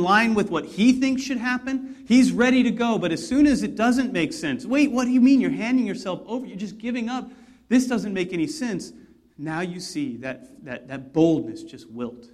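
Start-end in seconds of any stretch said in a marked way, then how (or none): 4.6-8.9 baffled Peter. Retold or imitated. Peter voiced, baffled protest.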